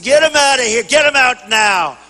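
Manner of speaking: retold rough order to eject someone. Speaker retells ordering a heckler thrown out, rough and forceful. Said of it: "And I was rough".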